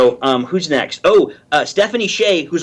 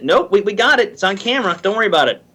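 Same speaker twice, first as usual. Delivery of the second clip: brisk director; 4 semitones higher, faster than usual. Retold or imitated. Imitating the director's reply.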